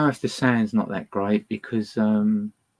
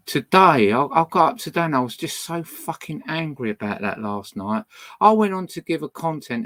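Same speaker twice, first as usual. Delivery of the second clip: real anger; 5 semitones higher, 4 dB louder than usual. Real, not acted. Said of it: "I'm really angry at the moment".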